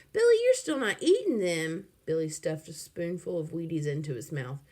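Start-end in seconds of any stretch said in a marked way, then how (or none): 0.1-1.9 alarmed mother. A narrator's reading.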